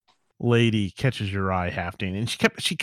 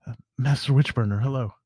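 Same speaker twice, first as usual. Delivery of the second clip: mildly nervous, hesitant greeting; a touch of acted nerves; faster than usual. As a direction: stammer a little before saying hello. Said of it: "and she real nervously, she says".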